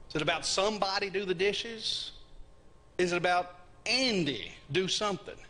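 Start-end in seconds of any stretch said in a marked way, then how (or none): 0.4-2.1 "somebody" punched, the rest running on; stress on somebody. Shown as a demonstration. Preacher asking where emphasis lies, "somebody" stressed. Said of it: "we have to use voice inflection". 3.9-5.4 "Andy" pitched up and leaned on; stress on Andy. Shown as a demonstration. Preacher asking where emphasis lies, "Andy" stressed. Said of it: "we have to use voice inflection".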